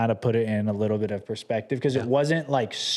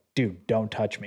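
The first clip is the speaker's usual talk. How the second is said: mock anger, put-on, much slower pace. Retelling how a man reacted when people kept grabbing him for pictures, imitating a pissed-off man. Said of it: "like the most pissed off".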